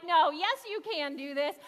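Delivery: mock insistence, loud at the start; excited insistence. Preacher imitates Sue urging someone on, excited and insistent. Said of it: "You get like that when you're like".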